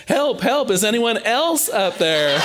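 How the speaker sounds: Jack gives up on God and shouts for anyone else; hammed-up yell for help. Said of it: "Finally, Jack yells".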